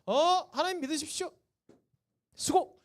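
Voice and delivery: mock casual street evangelism, called out; breezy half-hearted preaching. Strolling evangelist calling to passers-by, breezy and perfunctory. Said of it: "슬슬 지나다니면서".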